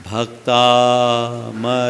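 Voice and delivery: very slow, drawn-out भक्तामर; slow model word. Shown as a demonstration. Teacher giving a word for the class to repeat, slowly. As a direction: stretch every syllable for them to copy. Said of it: "पहले मैं बोलूँगा, फिर आप दोहराएंगे".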